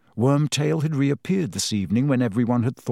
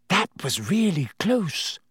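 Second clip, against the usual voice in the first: breathless relief; 6 semitones higher than usual. A narrator's reading. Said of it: "she said to Harry".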